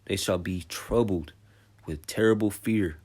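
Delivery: slow, loud preaching read; slow, booming scripture read. Acted. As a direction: proclaim each word slowly from the pulpit. Reads scripture aloud.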